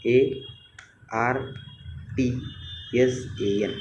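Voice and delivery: letter by letter with pauses; spelling out. Shown as a demonstration. Teacher spelling the corrected word to students, letter by letter. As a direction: spell it slowly for the class. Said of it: "इथे टी लावायचं राहिलं बघ".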